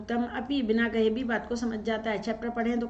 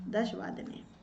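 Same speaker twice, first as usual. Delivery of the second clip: breathy whisper under her breath; soft whispered aside; 7 dB quieter, slower than usual. Real, not acted. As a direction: whisper the answer to yourself. Teacher murmurs answer to herself.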